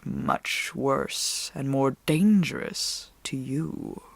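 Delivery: low, soft, slow wolf warning; a grieving wolf warns of a monster; growling wolf. A narrator's reading. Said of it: "said the growling voice".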